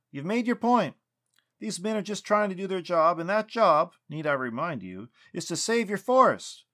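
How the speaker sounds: loud, high-pitched frustrated pleading; exasperated yelling. A narrator's reading. Lucas pressing Sylvanus to save his forest, yelling. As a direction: raise your voice and hammer the argument home. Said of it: "Lucas yelled".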